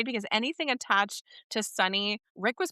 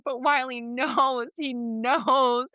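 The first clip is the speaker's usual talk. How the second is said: higher, laughing excited exclamation; 5 semitones higher, slower than usual. Retold or imitated. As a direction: blurt it out thrilled. Excited reaction retold.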